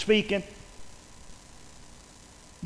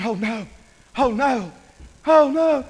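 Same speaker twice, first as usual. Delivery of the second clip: acted dismay, building louder and higher; each cry bigger than the last; mounting crowd dismay; 5 semitones higher, 5 dB louder than usual. Preacher voicing the people's growing alarm, mounting dismay. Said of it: "the more they talked, the more people were saying".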